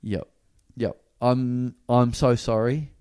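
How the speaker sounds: halting, subdued admission with long pauses; sheepish apology. Retold or imitated. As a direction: caught out and apologising.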